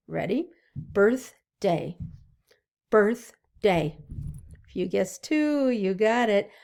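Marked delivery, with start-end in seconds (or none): 0.8-2.0 saying birthday in two clear beats; syllable clapping. Shown as a demonstration. Teacher to kids, counting syllables slowly. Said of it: "how many syllables are in the word birthday". 2.9-4.0 saying birthday in two clear beats; syllable clapping. Shown as a demonstration. Teacher to kids, counting syllables slowly. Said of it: "how many syllables are in the word birthday".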